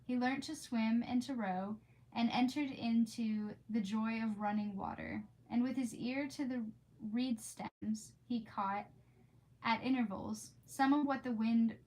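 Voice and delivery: reading a classic aloud, unhurried; story narration. Acted. Reading aloud to her stream, storybook narration. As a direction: read it like a bedtime storybook.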